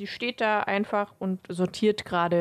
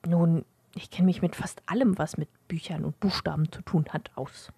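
librarian voice. Acted.

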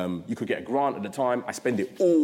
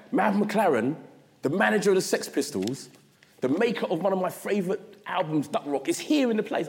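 high-pitched, awed fan rush; starstruck excitement; 6 semitones higher than usual. Retold or imitated. Young hairdresser seeing his music hero walk in, starstruck. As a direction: marvel at your idol in mock awe. Starstruck reaction to his music hero arriving.

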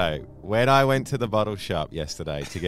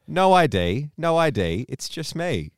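loud and higher, outraged; exasperated; 8 semitones higher, 6 dB louder, slower than usual. Retold or imitated. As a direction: say it in disbelief. Retold outrage, louder.

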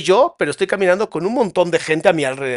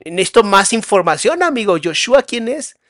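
higher-pitched, mock-exasperated query; playfully demanding, pitched up; exasperated questioning; 4 semitones higher, 4 dB louder than usual. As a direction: press a stranger for answers, voice lifted. Acts out demanding more information.

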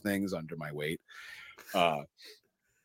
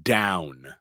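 a sudden barked order, then it drops; retold villain yelling at his hostage; mock yell; 5 dB louder than usual. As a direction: snap the first word out loud. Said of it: "Hans yells".

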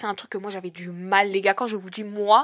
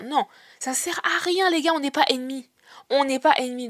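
pleading; 4 semitones higher than usual. Real, not acted. Pleading with viewers.

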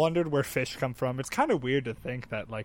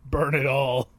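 film villain quote; 3 semitones lower, 3 dB louder, slower than usual. Retold or imitated. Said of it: "at the end of Godfather he says".

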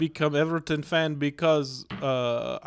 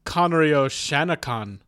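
put-on Irish accent; 2 semitones higher, 5 dB louder than usual. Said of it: "I think you went Irish".

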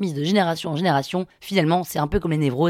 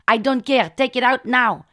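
high, raised insistence; angry demand; 6 semitones higher, 3 dB louder, slower than usual. Retold or imitated. Patient orders healer to remove needles, angry. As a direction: order him firmly.

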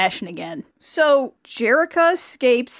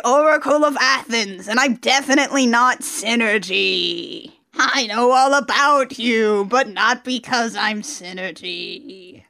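mock mysterious oracle. A poorly disguised Synergy claims to know all, mock mysterious. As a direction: draw the words out, hinting at mystery.

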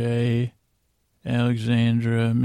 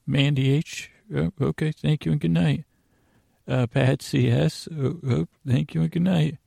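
higher-pitched pretend attendance taker; teacher-like roll call, pitched up; 4 semitones higher than usual. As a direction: lightly play a teacher taking attendance.

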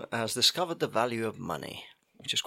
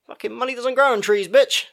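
much higher, louder, laughing outburst; laughing mock rant; 12 semitones higher, 6 dB louder than usual. Real, not acted. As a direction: blurt it out laughing.

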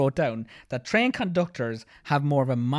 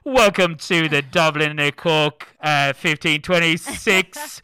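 a slow, louder fairground waltzer operator; waltzer lad; 5 dB louder, slower than usual. Retold or imitated. Host imagining a fairground lad as train conductor, slow loud drawl. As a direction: drawl it like a funfair ride lad. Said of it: "lads that work at fairgrounds on the waltzers".

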